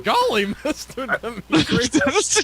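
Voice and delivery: slow, lightly goofy clown voice; hint of a simple-hearted clown. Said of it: "it's all, like, clown-like".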